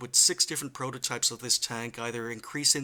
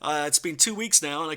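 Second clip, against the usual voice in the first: sick voice; 3 semitones higher than usual. Real, not acted. Youtuber tells viewers he is still sick, talking in a rough sick voice. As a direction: voice still rough from a chest infection. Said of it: "as you can still hear".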